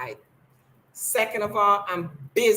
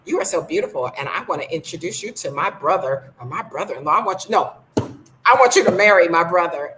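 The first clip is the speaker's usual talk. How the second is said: gushing mock matchmaker, louder at the end; imitating eager aunties; 6 dB louder than usual. Speaker imitates local women pushing their brother on her, gushing. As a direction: play the pushy local woman selling her brother.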